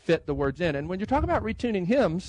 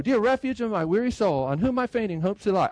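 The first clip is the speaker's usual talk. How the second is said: rushed reading; 3 semitones higher than usual. Shown as a demonstration. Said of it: "I can't just go".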